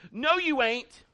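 lightly voiced rough guy, emphatic; rough dude. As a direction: voice the tough guy, insistent. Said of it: "this is what the guy says".

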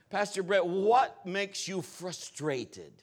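imitated French accent, drawn out slowly at the end. Woman at lunch questioning her pastor, French accent. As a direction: stretch out "frustrated" in a French accent. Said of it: "in that French accent".

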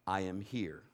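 low, soft reassurance; quiet calm voice. Retold or imitated. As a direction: speak it softly as God's gentle presence. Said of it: "what I heard out loud".

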